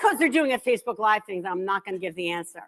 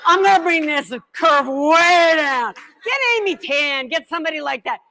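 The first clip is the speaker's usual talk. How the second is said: laughing shout; 5 semitones higher, 5 dB louder than usual. Real, not acted. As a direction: cry it out through laughter at yourself. Self-mocking joke to audience.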